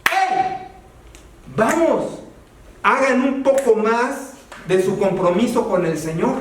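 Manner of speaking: un "¡Hey!" agudo que despierta; llamado enérgico. Shown as a demonstration. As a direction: anima a la congregación con un grito. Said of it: "lo que sí puedo obligarlos es decirles". (llamado entusiasta a la congregación)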